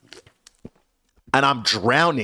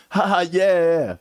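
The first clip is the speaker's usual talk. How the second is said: awkward fake laugh; 6 semitones higher than usual.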